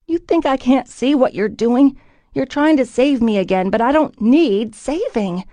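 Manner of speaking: high and loud, furious; angry outburst. A narrator's reading. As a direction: throw it in his face. Heroine continues shouting at Rupert.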